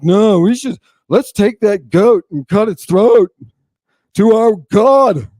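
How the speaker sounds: high, hammed-up zealous brother; Abel. Abel urges Cain to sacrifice, mock zeal. Acting out Abel's eager reply.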